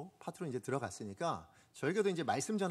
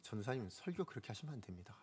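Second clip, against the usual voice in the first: retold teacher's rebuke; 4 semitones lower, 9 dB quieter than usual. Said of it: "이 얘기를 듣는데요".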